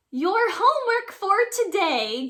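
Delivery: high, loud, gleeful whisper of a monster teacher; grinning monster teacher. A narrator's reading. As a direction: hiss it out with a grin. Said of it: "grins Missus Green".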